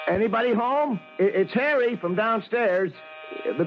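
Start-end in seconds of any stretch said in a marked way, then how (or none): 0.1-1.0 calling out. Acted. Doorman calling into apartment.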